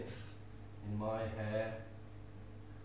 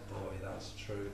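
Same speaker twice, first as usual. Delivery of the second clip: granny voice; 5 semitones lower, 9 dB quieter, slower than usual. Acted. Granny answers grandson in poem.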